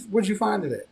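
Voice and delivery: high, sharp counter-question; high accusing. Retold or imitated. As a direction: turn it back on him, high. Daughter turns it on father.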